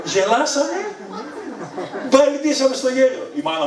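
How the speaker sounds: high voice breaking into laughter; recalling the family laughing, said laughing. Real, not acted. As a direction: talk through the giggles. Laughing while telling.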